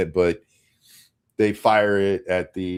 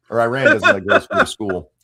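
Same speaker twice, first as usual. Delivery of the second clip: laughing; 6 dB louder than usual. Real, not acted. Joking about Iran, laughs.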